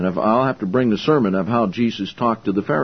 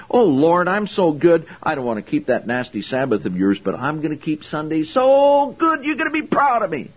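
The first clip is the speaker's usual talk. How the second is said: higher, self-satisfied mock prayer rising to a squeak; mock pious prayer; 3 semitones higher than usual. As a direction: parody a smug churchgoer praying. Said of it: "walk up to God and say".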